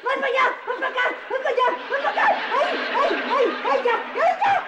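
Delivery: squealing as the water hits; sprayed with water. Acted. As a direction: flinch and squeal, getting wet. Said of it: "Me estás mojando". (gritando mientras la mojan con agua)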